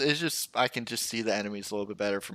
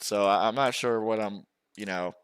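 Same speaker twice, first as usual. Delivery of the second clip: words around a sip of coffee; talking between coffee sips; while sipping a drink. Real, not acted. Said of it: "Sorry, I'm sipping my coffee".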